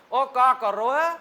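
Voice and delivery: a brash, open-mouthed dialect shout; loud open-mouthed. Retold or imitated. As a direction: boom it out with the mouth wide open. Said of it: "और वो इतना मुंह खोलेंगे".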